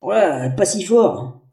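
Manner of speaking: slow, soft, booming echo. Acted. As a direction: speak from inside a barrel. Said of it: "ta voix débarque des profondeurs infernales".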